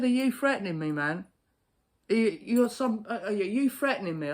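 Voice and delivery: high, loud confrontation; angry challenge. Retold or imitated. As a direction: square up to him and demand an answer. Confronting the threatening man.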